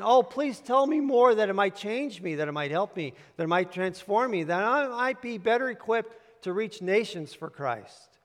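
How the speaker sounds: eager pleading, starting high and loud; sheer devotion. Acted. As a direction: plead like a hungry listener, mildly acted. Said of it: "With, with a sheer devotion".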